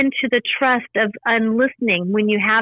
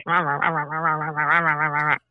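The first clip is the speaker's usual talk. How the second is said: low, quieter droning rah-rah babble; mock mind chatter; 6 semitones lower, 4 dB quieter than usual. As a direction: mimic the mind's endless nagging noise. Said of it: "the mind comes in and says".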